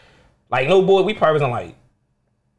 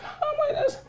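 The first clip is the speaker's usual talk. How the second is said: starstruck whisper; 12 dB quieter than usual. Retold or imitated. Starstruck girl in Walmart.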